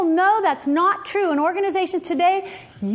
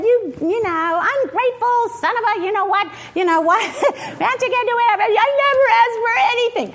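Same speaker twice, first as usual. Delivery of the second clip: hammed-up scolding, rising higher as it goes; mock mad mother; 4 semitones higher than usual. Harried mother telling off her son, mock angry. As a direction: rant like a harried parent, breaking into a laugh. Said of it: "gotten all mad and said".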